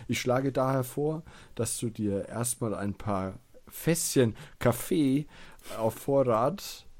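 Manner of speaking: reading out adventure text, lightly dramatic; game text narration. Acted. Reads the game text aloud. (Spieltext vorlesen)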